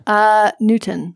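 Newton drawn out, long final N; slow demonstration. Shown as a demonstration. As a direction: say Newton slowly. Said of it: "How would you say Newton".

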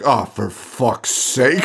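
slow, weary sigh of a line; exasperated nurse. Retold or imitated. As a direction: drag it out like a fed-up nurse. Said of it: "she's like".

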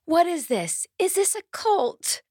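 very high-pitched mock alarm, slowing at the end; imitated puzzled parents. Singer imagines parents seeing the audience, high mock-baffled voice. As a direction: question it like a bewildered onlooker. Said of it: "the parents of any younger kids ... might look in this audience and say".

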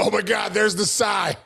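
mock exclamation from the wife; a hint of a teasing wife; imitating amused wife. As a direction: call out the catch, lightly acted. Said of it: "Sarah starts laughing. She's go".

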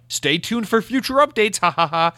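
high-pitched fake-chipper sign-off with spoken ha-ha-ha; sing-song mockery, fake laugh at the end; mock cheery company reply. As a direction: imitate a blithe corporate brush-off. Mocking the company's cheery response.

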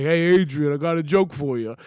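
a hint of the boxer pitching a joke; Rocky impression. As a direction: lightly imitate a boxer hailing his girl. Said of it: "He's like".

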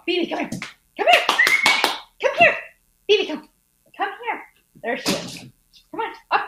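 high, coaxing pet-call voice; calling a dog. Real, not acted. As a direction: sweetly coax the dog over.

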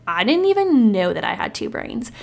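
mock-astonished, leaning hard on the words; imagined disbelief, stretched and emphatic; surprised listener. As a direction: play a listener who had no idea.

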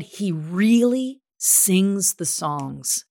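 drawn out, each word weighed; slow, earnest quote. Retold or imitated. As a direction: say it slowly as a revelation. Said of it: "She said".

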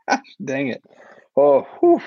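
catching breath after a laughing fit; after laughing hard. Real, not acted. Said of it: "let me compose myself".

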